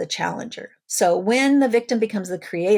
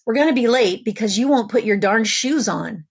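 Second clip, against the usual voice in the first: louder, exasperated mock yell; parent yells; 3 semitones higher, 5 dB louder than usual. Parent yelling at child in the morning rush, loud. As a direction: scold the kid who won't put shoes on. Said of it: "So the parent yells".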